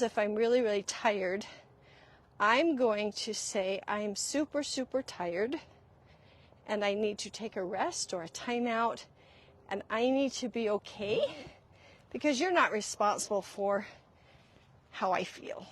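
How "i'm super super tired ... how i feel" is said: soft, measured parent voice; tender, quiet reassurance; gentle calm explanation. Acted. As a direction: explain it softly to a child. Models calm parent talk to child.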